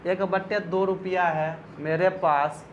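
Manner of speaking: slow teacher read, stress on बटे with a held doubled t; slow and deliberate. Shown as a demonstration. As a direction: spell it out slowly so the class follows बटे. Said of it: "तो ये सुनो ध्यान से".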